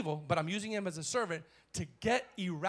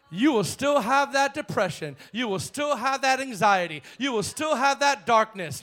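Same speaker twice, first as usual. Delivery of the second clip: building preaching; 2 semitones higher, 6 dB louder than usual. Real, not acted. Preaching cadence.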